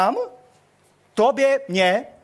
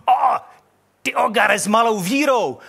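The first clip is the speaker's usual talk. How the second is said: mock rebuke; 4 semitones higher, 4 dB louder than usual. Peter rebuked after sinking.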